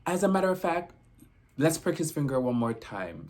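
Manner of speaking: imitating the nurse's Jamaican lilt, pitched high; a sudden high "as a matter of fact", lightly Jamaican; mock Jamaican nurse deciding; Jamaican accent. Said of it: "a Caribbean lady".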